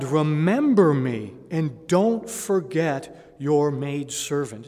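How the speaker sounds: earnest pleading prayer. Retold or imitated. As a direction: beg God slowly to remember you. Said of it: "and you say to God".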